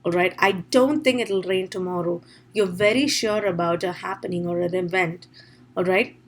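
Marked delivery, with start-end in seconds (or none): 0.4-2.2 "don't" picked out, the rest lighter; shifting stress demo. Shown as a demonstration. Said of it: "In terms of the shifting stress".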